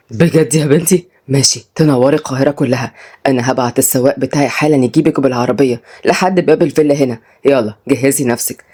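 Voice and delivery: a fatherly boss giving instructions; authoritative fatherly judge. Acted. Voices Fouad, the father. (أب صاحب سلطة بصوت واطي)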